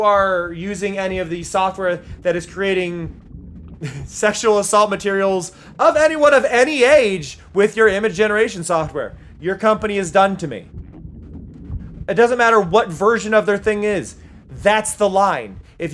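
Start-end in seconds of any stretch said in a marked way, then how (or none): 4.1-15.6 heated, louder rant; real fury, drawing the line; furious rant about AI companies; real anger. Real, not acted. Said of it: "I'm very angry right now".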